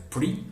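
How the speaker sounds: first syllable "pri" held apart with a rising tune; isolated syllable. Shown as a demonstration. Teacher splitting prison into two syllables, isolated "pri". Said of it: "it contains two syllables".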